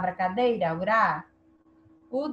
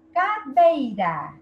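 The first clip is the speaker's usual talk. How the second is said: "Cadeira" drawn out, louder on the stressed "dei"; tonic syllable stressed; 3 semitones higher, 6 dB louder, slower than usual. Shown as a demonstration. Teacher asking for the tonic syllable, "Cadeira" stretched with "dei" stressed. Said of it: "Qual é a sílaba tônica?".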